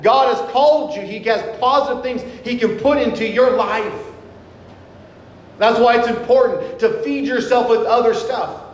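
projected, measured sermon delivery; preaching. Real, not acted. Preacher urging the congregation toward a life of joy, preaching. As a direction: preach it out firmly, stretching key words.

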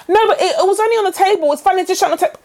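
high, airy it's-nothing tone; breezy dismissive host. Pretend. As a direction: brush off the snake mess lightly. Mock host brushing it off.

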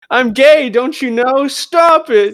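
joking skit, begging the women to stop; mock protest. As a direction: shriek it like a play victim.

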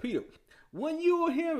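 high mock accusation, stretched and insistent; accusing onlooker. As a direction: pipe up high and call him out. Second accuser challenging Peter.

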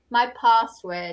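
"password" said PAHSS-word, long open A; posh long A. Shown as a demonstration. Teacher demonstrating posh English, long AH in password. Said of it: "would sound very posh".

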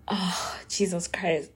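exasperated unvoiced whisper; weary whisper under breath. Real, not acted.

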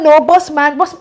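loud street slang, lightly voiced; imitating roadman friend. Friend shouting at security guard, mock roadman voice. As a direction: toss it off like a roadman. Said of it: "The guy was doing that".

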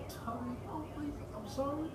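high, pleading mock sob; hammed-up tearful begging; imitating her crying. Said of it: "she just started crying and was like".

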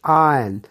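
loud आयरन without the r, "aa-yan"; correct pronunciation. Shown as a demonstration. Teacher answering "क्या बोलना है?", correct pronunciation. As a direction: drill आयरन as "aayan", falling. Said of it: "क्या बोलना है?".

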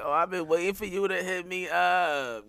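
teasing imitation of a flirt; mock flirty woman. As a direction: mimic someone who's been waiting on the call. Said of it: "Bitch be like".

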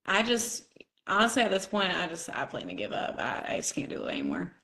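guy voice. Pretend. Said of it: "Is this your guy voice?".

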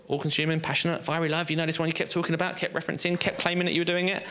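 high-pitched, insistent questioning; pressing challenge. Acted. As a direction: keep pressing on his boastful claims. Jesus pressing Peter on his claims.

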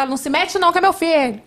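mais agudo, rebatendo o intrometido; pai irritado. Acted. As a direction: imite um pai na defensiva. Pai irritado rebate quem intervém. (irritado, na defensiva)

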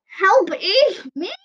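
high, slow desperate shout; shout for help. Acted. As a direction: cry out over the storm.

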